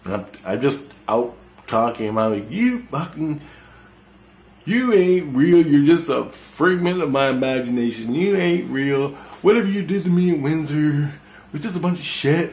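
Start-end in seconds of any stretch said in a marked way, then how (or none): 2.5-12.5 raised, angry retelling of a yell; yelling at him. Retold or imitated. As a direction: snap at the unseen presence, half yelling. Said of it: "yelling at him".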